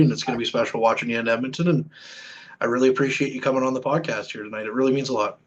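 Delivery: sincere, understated thanks; heartfelt. Real, not acted. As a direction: thank a guest earnestly as the show wraps up. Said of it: "I'm gonna get my feels here".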